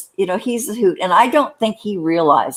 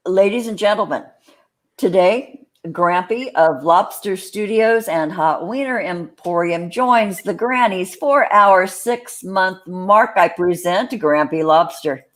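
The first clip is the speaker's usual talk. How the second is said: fancy intro. Pretend. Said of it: "when I did that fancy intro".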